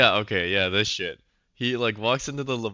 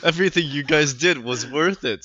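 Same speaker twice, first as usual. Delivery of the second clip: mock solemn tribute; 4 semitones higher, 9 dB louder than usual. Mock salute to the dead.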